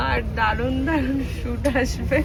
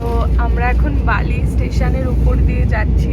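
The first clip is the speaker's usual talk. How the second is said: loud over noise; 7 dB louder than usual. Real, not acted. Talking over train noise.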